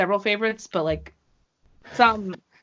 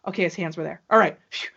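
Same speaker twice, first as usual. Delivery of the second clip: acted relief; faster than usual. Relief after watching the replay.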